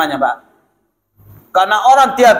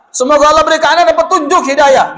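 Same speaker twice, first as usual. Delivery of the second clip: higher, mock-angry blessing; imitating very angry; 5 semitones higher, 3 dB louder than usual. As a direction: hurl the blessing like a scolding. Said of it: "Marah sekali itu". (pura-pura marah sambil mendoakan)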